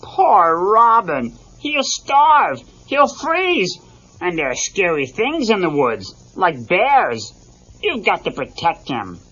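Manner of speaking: hammed-up Fozzie fretting; Fozzie in a panic. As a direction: build into panicked bear worry. Fozzie worries in story.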